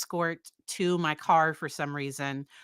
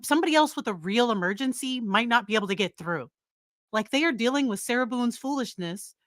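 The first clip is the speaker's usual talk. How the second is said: indignant, raised pitch, pressing on key words; mad rant; 4 semitones higher than usual. Real, not acted. Host ranting about tying up nine one one, mad. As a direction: scold in exasperation, voice pushed up. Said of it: "Sorry if I'm yelling".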